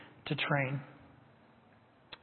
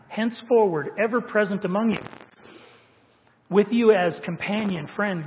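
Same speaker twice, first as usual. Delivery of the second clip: commentary read aloud with rising fervor, louder in the lists; preached reading; 4 dB louder than usual. Acted. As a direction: read the quote like a preacher building to a climax. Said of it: "I'm just gonna read it to you".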